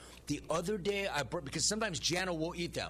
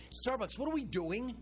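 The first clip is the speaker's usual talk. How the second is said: much higher, incredulous demand; exasperated outburst; 8 semitones higher than usual. Real, not acted. Host demands answers from Starbucks, incredulous and high. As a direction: throw the question up in disbelief. Ranting at Starbucks over old food.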